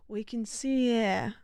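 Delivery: hushed wildlife narrator, mild attempt; David Attenborough impression. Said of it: "Okay, David Attenborough, if he was British".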